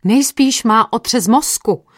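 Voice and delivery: a touch of excitement, slow; eager bystander guessing; excited. A narrator's reading. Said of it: "navrhl někdo vzrušeně".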